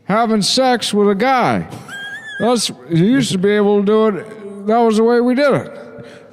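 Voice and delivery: high voice drenched in reverb; echo chamber voice. Acted. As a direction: talk high into a cavern echo. High echoed voice.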